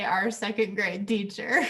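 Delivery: light imitation of "our second grade teacher", "teacher" rising; gentle playful parroting of "our second grade teacher"; mock quoting. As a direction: echo her phrase teasingly, "teacher" lifted. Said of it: "I love how you say".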